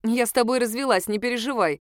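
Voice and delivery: plain reading voice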